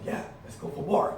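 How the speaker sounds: whispered go-ahead; quiet willing reply; hushed agreement. Retold or imitated. Opponent agrees, quoted.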